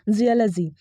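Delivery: "जियोलॉजी" as JEE-uh-luh-zee; short "uh-luh" in "जियोलॉजी"; correct pronunciation. Shown as a demonstration. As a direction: model "जियोलॉजी" without "o" or "law". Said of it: "जो इसका correct pronunciation है".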